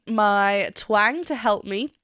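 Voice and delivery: ordinary delivery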